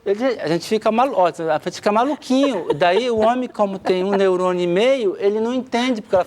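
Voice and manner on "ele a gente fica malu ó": ordinary delivery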